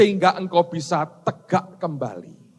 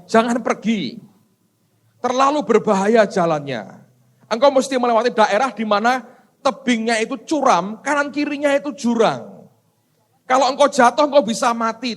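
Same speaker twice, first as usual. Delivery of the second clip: anxious villagers warning; 6 semitones higher, 4 dB louder than usual. Acted. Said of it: "orang-orang berkata kepada dia".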